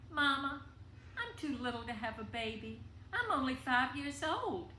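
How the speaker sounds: put-on high, loud, panicky child voice; a five-year-old blurting out her fear; frightened little girl. Scared small girl to her mother.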